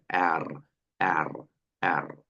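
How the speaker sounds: "एर" low and quiet, a light R at the end; soft German R. Shown as a demonstration. Teacher shows the soft R to the student. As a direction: softly say "एर" with a faint R. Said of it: "हल्की सी र sound के साथ".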